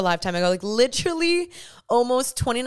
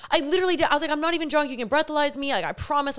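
retold pleading; 5 semitones higher, faster than usual. Pleading with the police officer.

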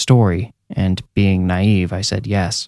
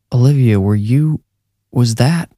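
stammering; 3 semitones higher than usual. Acted. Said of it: "he stammered".

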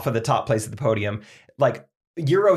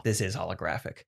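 auction host; 3 semitones lower than usual. Pretend.

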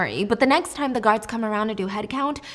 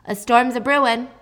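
louder mock-ominous call; loudly announced; 5 dB louder than usual. Jesper announcing the bomb to the cell, mock-ominous and louder. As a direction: announce it loud for the whole cell. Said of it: "he says loudly".

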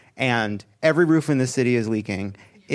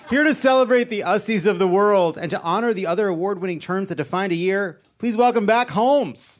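awards show announcer; 6 semitones higher than usual. Acted. Host welcoming a guest back to the stage, announcer delivery. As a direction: build to a welcome, higher at the end.

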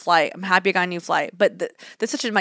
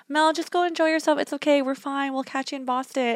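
higher, soft imitation of kind friends; reassuring; 6 semitones higher, 3 dB quieter than usual. Friends taking off without Mel, reassuring. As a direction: lightly voice friends soothing her, getting softer.

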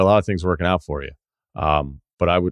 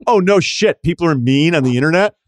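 mock whine; 8 semitones higher, 4 dB louder than usual. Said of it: "be like".

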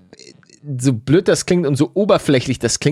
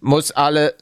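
robotic error message. Pretend. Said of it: "Ich bin seit vielen Folgen eine K I".

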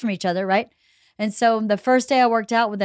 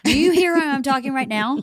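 raised, higher-pitched everyday voice; naturally loud talk; 4 semitones higher than usual. Shown as a demonstration. Mother called a yeller showing how she talks, loudly. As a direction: demonstrate your normal big voice. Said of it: "said that I'm a yeller".

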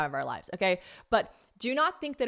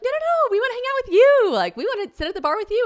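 very high, loud, gushing protest; eager mock pleading; 10 dB louder than usual. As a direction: squeal over the offer, insisting excitedly. Acting out eager plea to waiter.

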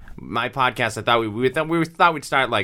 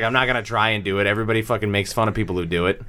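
fast casual aside; 3 semitones lower, faster than usual. Retold or imitated. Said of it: "he's just like".

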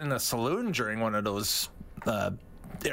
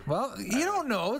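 put-on old prospector; 11 semitones higher, slower than usual. Joking in prospector voice.

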